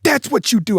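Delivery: high, excited imitation of an animated wrestling manager; imitating Paul Heyman getting excited like a kid. To the host, imitating Paul Heyman's excited reaction to the promo. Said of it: "Pretty good Paul Heyman".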